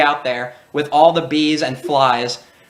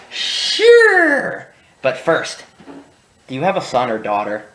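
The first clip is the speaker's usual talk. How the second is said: prank caller. Retold or imitated. Kid pranks trucker on radio.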